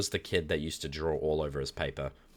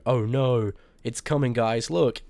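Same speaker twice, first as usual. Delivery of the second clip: higher, louder hammed-up panic; mock alarm; 7 semitones higher, 6 dB louder, slower than usual. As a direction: play a panicked stickman. Stickmen see the sun coming.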